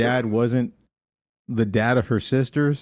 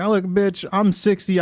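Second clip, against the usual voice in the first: grandma voice; 7 semitones higher than usual. Retold or imitated. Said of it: "She's like".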